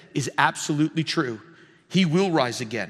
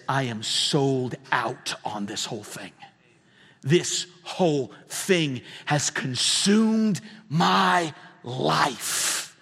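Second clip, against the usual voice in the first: passionate conviction; slower than usual. Acted. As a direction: declare it slowly, weighting each word. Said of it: "there better be a passion and an emotion".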